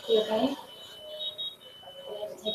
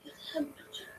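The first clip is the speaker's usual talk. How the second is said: crying whisper; 3 semitones higher, 4 dB quieter than usual. Acted. Weeping mother at hospital bed.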